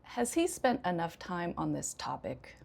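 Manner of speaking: imply he has had far too long; sarcastic. Shown as a demonstration. Teacher testing learners on tone, sarcastic. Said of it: "first one was falling".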